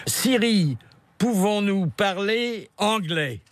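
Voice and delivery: high, slow, careful question; addressing a voice assistant. Real, not acted. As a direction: spell it out for a machine. Talking to the Siri voice assistant.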